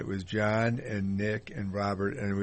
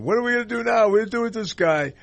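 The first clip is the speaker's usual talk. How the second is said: mock panic; 13 semitones higher, 9 dB louder, faster than usual. Retold panicked producers.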